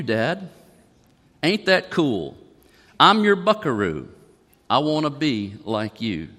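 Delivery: heartfelt lyric reading; reading song lyrics. Acted. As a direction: gently read lyrics, like telling a small story. Pastor reads country song lyrics aloud.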